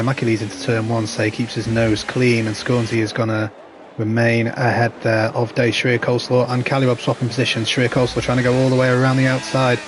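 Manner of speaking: steady live race commentary; play-by-play. Acted. Streamer commentating the race for viewers, steady play-by-play.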